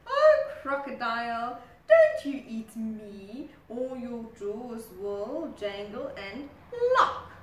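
loud, half whispered warning; sly rock voice. Acted. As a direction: tease the crocodile with a sly warning. Rock posing as elephant.

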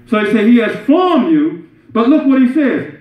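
earnest sermon delivery; preaching. Real, not acted. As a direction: press the point home to a congregation. Preaches with raised voice.

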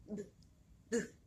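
B as a short, isolated consonant sound; first sound B. Shown as a demonstration. Teacher sounding out ball's first sound for pupils, letter sound. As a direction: sound out B alone, twice, with a gap. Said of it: "veamos el primer sonido".

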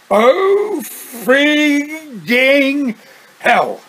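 high pained cry; screamed curse. Acted. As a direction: cry out in pain. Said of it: "he screamed".

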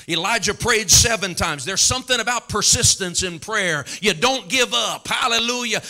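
emphatic pulpit exhortation; full-force preaching. Real, not acted. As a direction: urge the congregation to persist.

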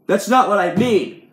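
slow, loud, high protest; exasperated. A narrator's reading. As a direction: drag it out in exasperation. Aggravated man objects.

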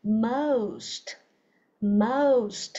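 MOST repeated with a long "ow" and clear st; correct most. Shown as a demonstration. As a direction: model most slowly for the class. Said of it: "sờ tờ vô nè". (đọc mẫu most, rõ đuôi "st")

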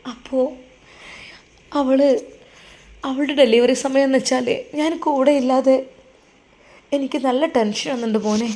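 a mother close to tears on the phone; mother tells her son tearfully she misses her daughter. Acted. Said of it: "അത് കേട്ട് ആ ഉമ്മ പൊട്ടിക്കരഞ്ഞു".

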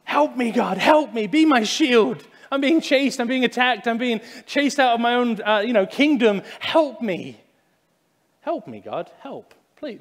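high, pleading cry fading to a near whisper; desperate psalm-style cry to God, trailing off. Shown as a demonstration. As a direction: beg God for help, then run out of voice. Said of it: "that cry, that's how this is meant to be read".

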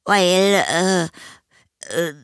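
high, halting hesitation; stalling boy. A narrator's reading. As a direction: grope for words in a child's high voice. (zögernde, hohe Jungenstimme)

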